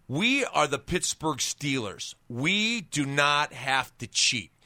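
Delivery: slow, firm coach's rebuke, words spaced out; stern coach. Retold or imitated. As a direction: lay down the rule slowly like a strict head coach. Coach voiced in retold story.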